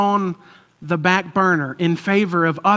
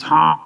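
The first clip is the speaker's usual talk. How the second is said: short, louder mock "huh"; imitated nose-honk noise; 5 dB louder than usual. Good coach grabs the bully's nose, mock honk. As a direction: imitate a sudden honk, punched out. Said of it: "grabs his nose and goes".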